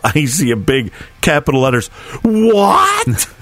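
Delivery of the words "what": shocked what. Retold or imitated. Wife's capital letters text.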